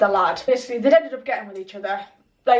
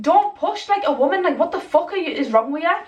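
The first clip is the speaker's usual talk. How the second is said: higher-pitched retold telling-off, easing down; indignant scolding; 5 semitones higher than usual. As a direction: re-enact scolding him for pushing a woman.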